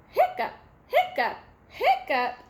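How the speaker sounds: high squeaky hiccups dropping at the end; playful hiccup noises; acted hiccups. Pete hiccups in story.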